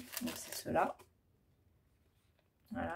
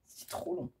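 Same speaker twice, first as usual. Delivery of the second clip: breathy laugh through the words, higher; 9 semitones higher, 6 dB quieter, slower than usual. Real, not acted. Vlogger laughing to viewers about unreadable stamp text. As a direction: giggle it out, slow.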